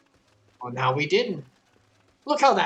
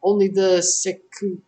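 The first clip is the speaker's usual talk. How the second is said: lightly voiced courteous innkeeper turning them away; apologetic but firm, rushing the policy; a receptionist politely declining to name patrons; polite refusal; 4 semitones higher, 3 dB louder than usual.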